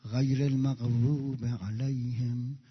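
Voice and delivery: slow, measured prayer recitation; recited prayer. Shown as a demonstration. Preacher reciting prayer for the congregation, slow and devout. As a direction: chant each phrase unhurried and devout.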